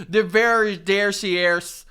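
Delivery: slow garbled newscaster, stumbling syllables; garbled reporter. Retold or imitated. Retelling a viral reporter clip, garbled stumbling speech. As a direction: imitate a reporter's words falling apart, slow and halting. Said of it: "and she's like".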